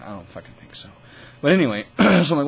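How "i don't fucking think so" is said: breathy muttered scoff, much softer; scoffing whisper. Retold or imitated. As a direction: hush it out like a private sneer. Sceptical self-quote about the offer.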